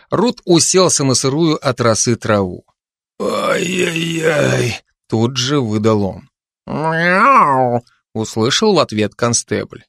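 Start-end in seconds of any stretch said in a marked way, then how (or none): 3.2-4.8 pained groan. Acted. Constable wakes in pain. 6.7-7.8 high, drawn-out cat mew; cat meow. Acted. Cat answers the waking constable with a high meow.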